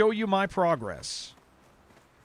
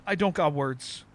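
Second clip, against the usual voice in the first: imitating toddler. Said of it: "And he said".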